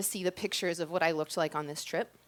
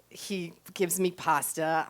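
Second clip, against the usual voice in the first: slow, breathy-soft fantasy whisper; dreamy whisper; 4 semitones lower, 4 dB quieter, slower than usual. Pretend. Teller dreaming of an Italian artist, slow whisper. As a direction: whisper it like a secret daydream.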